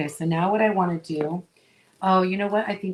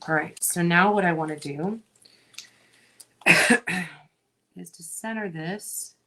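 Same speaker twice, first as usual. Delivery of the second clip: talking while chewing gum. Real, not acted. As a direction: chew gum as you speak. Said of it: "talk and chew gum at the same time".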